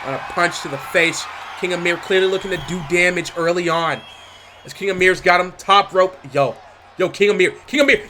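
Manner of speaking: live ringside play-by-play, rising hype; wrestling commentator. Acted. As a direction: call the action like a ringside announcer.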